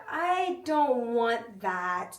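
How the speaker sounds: slow, drawn-out little refusal; picky child. Retold or imitated. Cousin imitates picky child refusing food, slow drawn-out whine. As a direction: drag each word like a fussy kid. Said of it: "Just like that".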